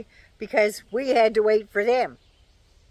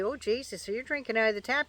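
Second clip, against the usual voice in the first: shocked cousins; 7 dB quieter, faster than usual. Retold or imitated. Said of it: "American cousins come up here and say".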